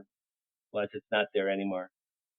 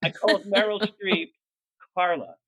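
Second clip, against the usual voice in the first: high, louder disbelief; mortified disbelief; 6 semitones higher, 3 dB louder than usual. Real, not acted. Admitting his blunder to friends, high and loud. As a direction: confess it, amazed at himself.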